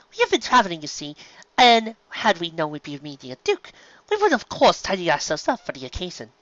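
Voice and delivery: lightly voiced polite pony; refined mare. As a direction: explain with genteel charm. Verity explains politely.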